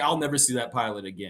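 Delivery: ordinary talk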